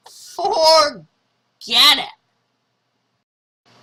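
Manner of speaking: loud, very slow, drawn-out huff; huffy dismissal. Acted. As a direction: stretch it out in a sulky snub. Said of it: "Martha said".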